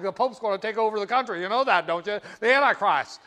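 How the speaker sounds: fast, loud fearmongering rant; mock paranoid conservative. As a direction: rattle it off like a panicked zealot. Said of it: "you should have heard the conservative".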